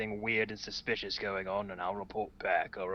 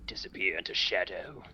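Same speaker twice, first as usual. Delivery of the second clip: whispering; 4 semitones lower than usual. Acted. Player whispers dramatic narration.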